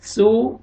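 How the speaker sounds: "सू" with a hissed plain s; wrong s sound. Shown as a demonstration. Teacher showing the mistake, "सू" with plain s. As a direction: say "सू" with s, not th. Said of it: "ऐसा नहीं होना चाहिए".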